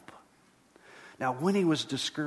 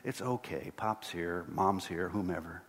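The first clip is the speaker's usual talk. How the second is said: softer, lower soothing words; comforting a child; 3 semitones lower, 4 dB quieter than usual. Retold or imitated. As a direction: hush a frightened child gently. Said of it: "you put your arm around them and you say".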